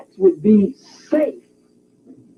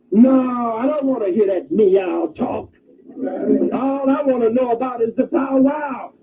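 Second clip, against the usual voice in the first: silly cat's retort. Acted. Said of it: "this silly black cat would say".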